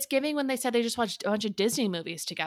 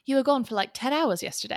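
put-on English accent, a bit higher; 5 semitones higher than usual. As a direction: read it in an amateur English accent. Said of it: "You have a good English accent".

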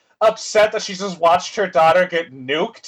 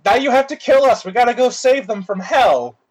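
shocked outburst; 4 semitones higher than usual. Acted. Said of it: "And they're like".

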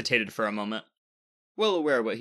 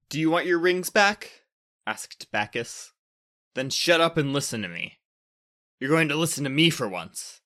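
defiant; 5 semitones higher, 5 dB louder than usual. A narrator's reading. Bacchus defiantly confronts Jupiter.

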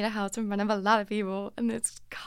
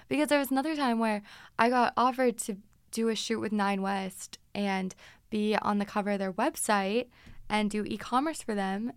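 usual speaking voice

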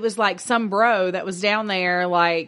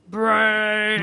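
zombie voice. Pretend. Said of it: "Ashton likes to play zombie".

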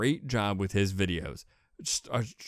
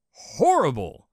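mock disgust; 6 semitones higher, 8 dB louder, slower than usual. Acted disgust at own recorded voice.

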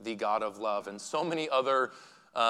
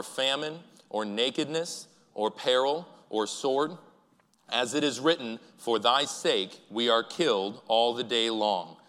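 slow, louder unison reading of scripture; slow congregational scripture reading; 4 dB louder, slower than usual. Real, not acted. Pastor leading the church in reading Romans aloud, slow and solemn. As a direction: read it aloud together, measured and deliberate.

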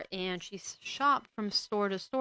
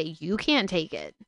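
slow, scornful throwing back of his words; mocking repeat; 3 semitones lower, 4 dB louder than usual. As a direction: repeat his excuse with contempt. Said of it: "And you're gonna say".

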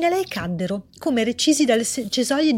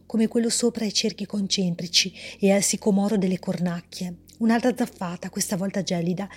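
measured, even storyteller reading; story narration; 2 semitones lower, 3 dB quieter than usual. A narrator's reading. Author reading her story aloud, calm narration. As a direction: read the tale calmly to listeners.

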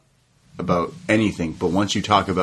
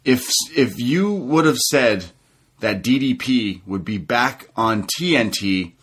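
imitating DDP; 2 semitones higher than usual. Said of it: "He says".

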